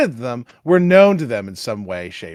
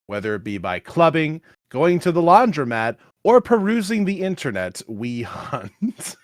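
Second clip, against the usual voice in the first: ordinary talk, nothing marked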